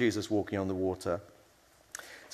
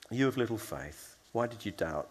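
soft, gentle chiding without rebuke; quiet, tender question; affectionate encouragement; 5 dB quieter than usual. Acted. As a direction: say it fondly, encouraging the doubter. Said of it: "affectionate encouragement rather than rebuke".

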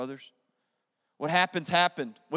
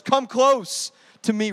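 tender invitation; 6 dB louder, slower than usual. Acted. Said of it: "Joseph said to his brothers".

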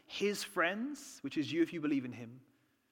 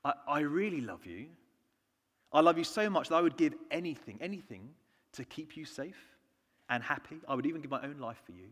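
put-on Queen, no accent; 3 semitones lower than usual. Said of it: "not gonna do an accent".

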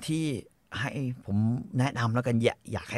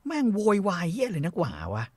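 high, exasperated outburst; exasperated ranting; indignant rant; 7 semitones higher, 3 dB louder than usual. Real, not acted. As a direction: vent disbelief at him, pitched up. Furious rant about pet owner.

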